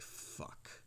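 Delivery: a hushed curse when the game is up; whispered curse. Retold or imitated. Son realizing his dad knows he's high, a whispered curse.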